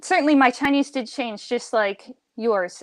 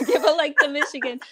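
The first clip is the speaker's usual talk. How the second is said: playful announcement; 4 semitones higher than usual. Acted. Repeats joke while laughing.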